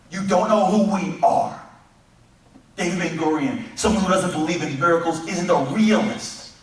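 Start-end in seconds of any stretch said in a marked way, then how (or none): 0.1-1.6 slow, louder defiant declaration. Acted. Pioneers facing the world, declaring defiantly. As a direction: plant your feet and declare it.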